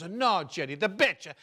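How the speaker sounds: Italian mama explaining "the bitch"; patiently correcting the son in accent; mother's Italian accent. Retold or imitated. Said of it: "she's got the accent".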